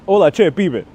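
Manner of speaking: Argentinian greeting, called out brightly; Argentinian accent. Acted. Streamer trying an Argentinian greeting, Argentinian accent. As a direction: greet them in Argentinian Spanish. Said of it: "I'm not saying that very Puerto Rican".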